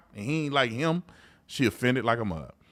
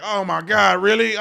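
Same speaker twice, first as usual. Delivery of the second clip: higher, louder fake astonishment; mock shock; 7 semitones higher, 6 dB louder, slower than usual. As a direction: parody a news anchor's gasp. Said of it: "Fox News is like".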